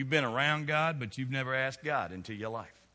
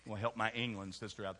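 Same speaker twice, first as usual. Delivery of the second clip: quiet aside; 6 semitones lower, 9 dB quieter than usual. Real, not acted. Aside about England sister.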